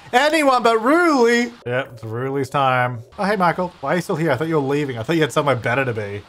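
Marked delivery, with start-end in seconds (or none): 0.1-1.5 high, loud, slow dramatic plea; mock plea. Gamer begging the Reaper to spare rooster Ruli, hammed-up high plea. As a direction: beg the fates, hamming it up.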